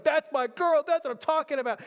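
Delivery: loud, high, excited dad cheering; pumped-up dad. Retold or imitated. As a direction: cheer like a proud father bouncing on his feet. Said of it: "He starts getting so pumped up".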